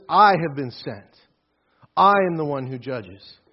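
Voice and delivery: firm proclamation. Retold or imitated. Preacher voicing Jesus before the leaders, loud and firm. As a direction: proclaim it with authority. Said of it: "Notice how he says this".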